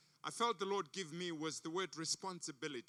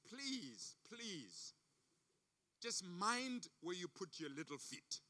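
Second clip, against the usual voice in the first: dismissive chicken; 4 semitones lower, 8 dB quieter, slower than usual. Acted.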